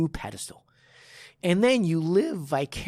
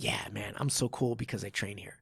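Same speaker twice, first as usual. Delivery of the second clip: mock boastful student; 6 semitones lower, 7 dB quieter than usual. Mocking the bragging student.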